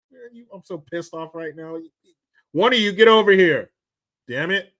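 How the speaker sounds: loud mock parent calling a kid over; hammed-up mother yelling; mock angry mom. Mimicking mom calling kids.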